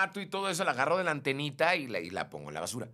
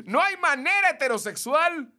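reading through laughter, louder; amused, laughing delivery; 6 semitones higher, 7 dB louder than usual. Real, not acted. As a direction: laugh out the comment as you read it. Reading funny viewer comment aloud.

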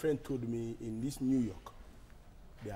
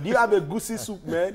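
mock American accent, much higher and louder; fake American accent; 8 semitones higher, 10 dB louder than usual. New arrival ordering in an Igbo restaurant, hammed-up American accent. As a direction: order soup with an overdone American man tag. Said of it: "make sure you use the word man".

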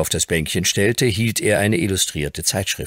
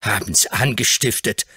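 scornful echo; 3 semitones higher than usual. Acted. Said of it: "rief Dick verächtlich".

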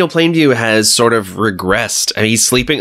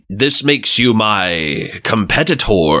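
slow, lower voice, lightly put on; mock spiteful father; 3 semitones lower, slower than usual. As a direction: draw it out like a movie villain. Mock quote of spiteful film father.

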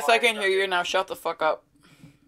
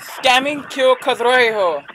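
mock Hindi; 5 semitones higher, 4 dB louder, slower than usual. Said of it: "are you comfortable in English?".

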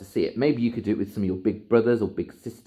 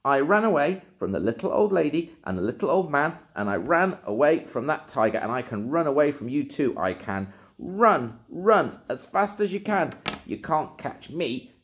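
lightly high boasting; a hint of cheeky tiny voice; gingerbread man voice; 7 semitones higher than usual. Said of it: "said the gingerbread man".

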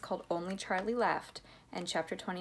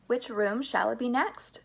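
tag; 4 semitones higher, 4 dB louder than usual. Acted. Eager Wonka voiced in story.

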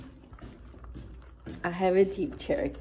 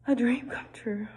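teary whisper; 2 semitones higher, 4 dB quieter than usual. Real, not acted. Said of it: "I'm low-key tearing up".

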